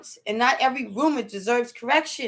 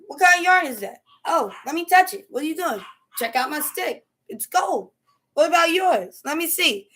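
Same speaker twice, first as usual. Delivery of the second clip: excited chatter; 4 semitones higher than usual. Retold or imitated. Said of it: "I'm talking to them".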